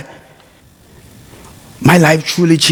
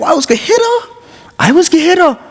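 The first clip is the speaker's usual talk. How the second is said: much higher, laughing; laughing admission; 13 semitones higher, faster than usual. Real, not acted. Speaker admitting to the audience he nearly hit her, laughing. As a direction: laugh through the confession.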